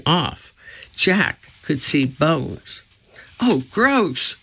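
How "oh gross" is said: put-on high girlish voice crying out in disgust; young girl yelping oh gross. A narrator's reading. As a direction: Annie recoils from the mummy. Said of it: "cried Annie".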